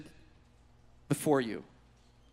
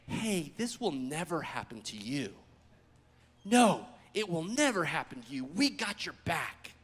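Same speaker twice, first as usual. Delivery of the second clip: confiding reassurance; 5 semitones lower, 7 dB quieter than usual. Acted. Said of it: "take Jesus for a little walk and say".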